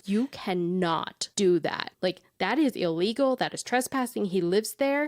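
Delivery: stern scolding mom voice. Retold or imitated. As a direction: scold her like a strict mom. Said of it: "my mom voice".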